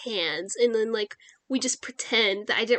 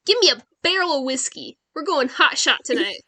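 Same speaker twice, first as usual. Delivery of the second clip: bold saloon customer; 2 semitones higher, 3 dB louder than usual. Acted. Orders boldly after hailing bartender.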